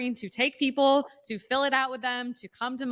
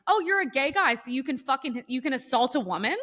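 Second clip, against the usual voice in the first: retold indignant challenge; 3 semitones higher than usual. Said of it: "I was like".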